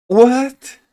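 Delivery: high shocked what; startled loud what. Real, not acted. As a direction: blurt out what, stunned. Surprised at German word.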